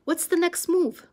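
high loud eager question. Acted. Buns asks the others what to do next, loud high question. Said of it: "asked Buns".

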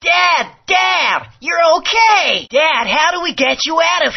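relief bursting out; excited calling. Acted. Child finds his father.

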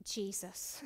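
soft unvoiced whisper of a name; whispered plea. Owner alone and helpless, whispering to Jesus. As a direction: breathe the name as a desperate prayer. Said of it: "and I'm thinking".

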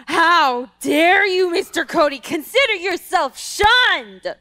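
slow, haughty mock outrage; hammed-up indignation; mock offended. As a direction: pretend huff at being tricked. Mock offended at Mister Cody.

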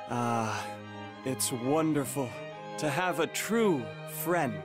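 low, reflective warmth; tender confiding. Acted. Confiding in a true friend about his ambitions, tender. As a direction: open your heart to a trusted friend, pitched low.

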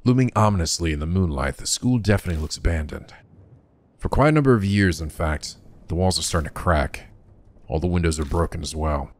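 measured scene-setting read; story narration. A narrator's reading. Narrator describing an abandoned school by moonlight, measured narration. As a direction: describe it evenly, like an audiobook narrator.

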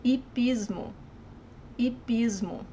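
Hipismo with the H left silent, starting on an ee sound. Shown as a demonstration. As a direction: say Hipismo as "ee-PEEZ-moo". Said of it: "it's silent".

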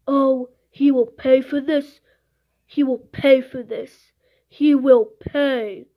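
hammed-up indignation with punched words; mock mad. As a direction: play up being mad. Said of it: "I'm so mad right now".

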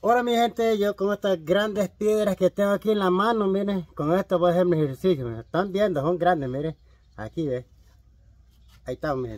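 loud workout host. Acted. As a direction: boom it out like a gym show. Shouting workout demo to viewers.

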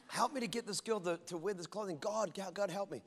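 a half-joking hushed plea; hushed mock pleading prayer. Pastor retelling his prayer, hushed and pleading.

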